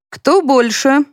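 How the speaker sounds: a mocking grin in the voice; smirking. A narrator's reading. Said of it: "усмехнулся полковник".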